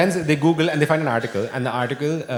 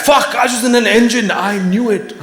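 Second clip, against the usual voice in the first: panicked friends; 10 semitones higher, 3 dB louder than usual. Retold or imitated. Friends panicking over the article.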